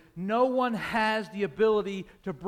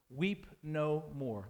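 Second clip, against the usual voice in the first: slow, soft and tender; 5 semitones lower, 6 dB quieter, much slower than usual. A narrator's reading. An elder consoling the weeping John, slow and tender. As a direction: comfort him gently, slowly. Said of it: "this tender voice".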